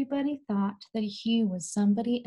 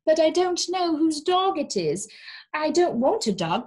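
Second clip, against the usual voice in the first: refusing; 7 semitones higher, 5 dB louder than usual. Acted. Neighbour refuses dog.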